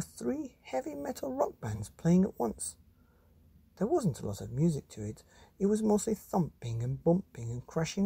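put-on lively read-aloud voice for children; storybook reading. A narrator's reading. Reading a monster picture book to children, animated. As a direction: tell it like a bedtime story to kids.

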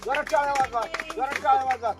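loud call to clap. Real, not acted. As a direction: pump up the audience. Calls crowd to clap. (टाळ्यांसाठी जोरदार हाक)

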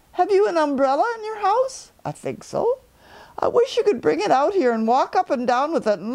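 high, light bear voice up in the sky; a cheerful little bear calling down; Pooh Bear. Acted. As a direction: Pooh calling down from his balloon.

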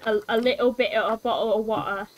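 dropped T's in a little bit of a bottle of water; Cockney accent. Shown as a demonstration. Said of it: "that's how you do, like, a Cockney accent".

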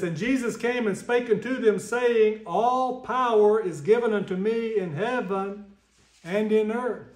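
a measured, solemn reading of the King James text; scripture reading. Acted. Reads scripture aloud.

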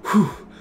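acted "whew" of relief; retold relieved exhale. Driver retells the truck stopping, relieved whew. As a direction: let out a mock sigh of relief. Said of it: "I can breathe".

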